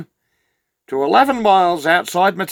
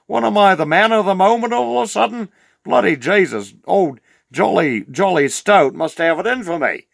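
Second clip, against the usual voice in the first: surprised greeting; 7 semitones higher than usual. Retold or imitated. Excited greeting of old acquaintance.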